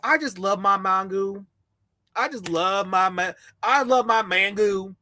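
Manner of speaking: low, savouring mock voice; mock dreamy fan. Mocking wannabes loving mango, low and dreamy. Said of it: "what's easy? Okay, mango".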